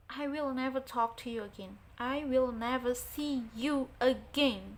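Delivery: a hint of anger, getting firmer; mild angry refusal. Shown as a demonstration. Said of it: "Kamu itu lagi marah-marah". (menolak dengan sedikit marah, makin keras)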